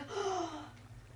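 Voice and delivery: sharp mock intake of breath; a principal's hammed-up gasp; shocked gasp. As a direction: gasp as if appalled.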